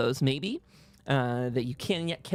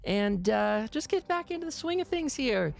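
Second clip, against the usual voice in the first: a higher, bright welcoming voice; cheery greeting; 6 semitones higher than usual. Acted. Hell's Bells welcomes the party back, higher and cheery. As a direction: greet old friends back from a trip, brightly.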